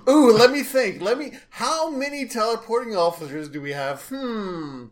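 high-pitched, exaggerated puzzling; mock pondering. Joker pretending to count the teleporting officers for Riker, sarcastic mock pondering. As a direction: pretend to think very hard, sarcastically.

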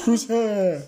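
half-hearted booming call; weak booming voice. Retold or imitated. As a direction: try for big and loud, falls short. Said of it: "You're not doing a very good booming voice".

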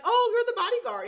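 high, loud mocking surprise at the bodyguard; mocking sneer. Vincent mocks Reese.

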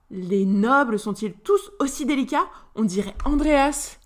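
sighing. Acted. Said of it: "soupira Cristal".

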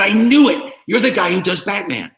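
high, loud excited cook; excited recognition. Retold or imitated. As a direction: burst out with delighted recognition.

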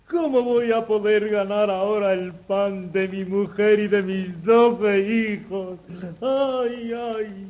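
hammed-up wailing over a lost axe; overdone, sing-song self-pity; fake lamenting. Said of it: "con falsas demostraciones de desconsuelo".

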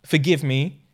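mock pleading. Mock begging after the acted quarrel.

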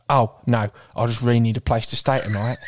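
lightly voiced story heroine; slightly put-on pleading character; protagonist voice. Shown as a demonstration. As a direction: demonstrate the main character's voice. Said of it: "the protagonist's voice sounds like this".

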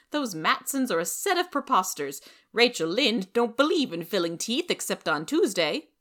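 high and loud, prim and cutting; sharp busybody. Acted. Rachel sneering at the Matsons, high and loud. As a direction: lay down the law.

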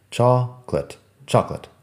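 "chocolate" as CHOK, lit, then run together; "chocolate" with the middle vowel dropped; quick two-syllable chocolate. Shown as a demonstration. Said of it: "Así de rápido".

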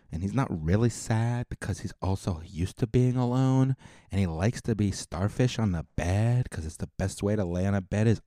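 a hint of a girly gossip voice; chatty girlfriend gossip, lightly played; lightly voiced Josephine. Josephine gossips to listeners about Yusuf, lightly girly. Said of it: "I'm Josephine".

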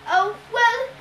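loud, high, drawn-out doting monster; grinning Cyclops. A narrator's reading. Cyclops teases his captive bride, grinning. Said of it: "Polyphemus grinned".

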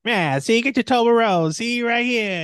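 loud, high, excited calling out. Real, not acted. Excited shouting about Toblerone picture.

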